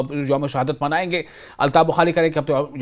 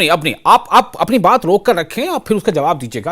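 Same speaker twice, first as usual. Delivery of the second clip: louder, laughing while cutting in; 4 dB louder than usual. Real, not acted. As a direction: stop him with a laugh. Host cuts guest off laughing.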